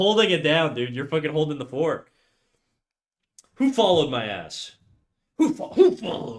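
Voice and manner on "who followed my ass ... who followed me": angry, mad-sounding, swooping outburst. Streamer asking who just followed the channel: sounding mad. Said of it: "why do I sound so mad when I say that".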